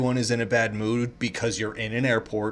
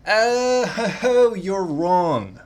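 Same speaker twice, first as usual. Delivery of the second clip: high, loud scoffing laugh into a retort; a hammed-up disbelieving scoff; mock outraged scoff; 8 semitones higher, 6 dB louder, much slower than usual. Real, not acted. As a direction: scoff at the quiz like it insulted you. Scoffing at a quiz result.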